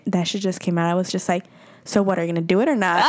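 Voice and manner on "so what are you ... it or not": fast, laughing half-shout; laughing challenge. Retold or imitated. Daring him to kiss her, fast and laughing. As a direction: blurt it out through laughter.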